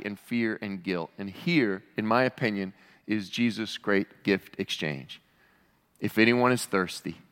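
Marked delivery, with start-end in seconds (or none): 6.0-7.2 lower, measured quote; tender invitation. Acted. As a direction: offer it gently and soberly. Preacher tenderly restates the invitation.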